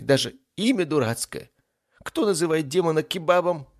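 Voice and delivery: whiny lament climbing in pitch. Acted. Ifrit laments his mother's scolding and his name, whiny. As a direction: lament with growing self-pity and indignation. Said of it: "Он вдруг начал причитать".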